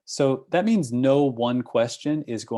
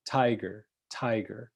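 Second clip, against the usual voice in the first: TIger, tiger, first syllable hit; stress on first syllable; 4 dB quieter than usual. Shown as a demonstration. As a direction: lean on TI in "Tiger". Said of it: "when we're doing stress patterns".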